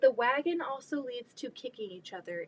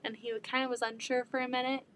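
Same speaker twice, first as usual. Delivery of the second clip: ordinary talk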